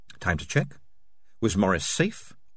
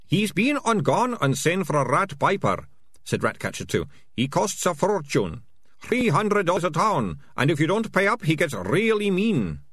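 gleeful thug; 8 semitones higher than usual. A narrator's reading. Ratcatcher Two boasting gleefully.

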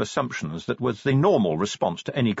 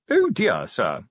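watchman sergeant voice; 2 semitones higher, slower than usual. Acted. Colon voiced in read story.

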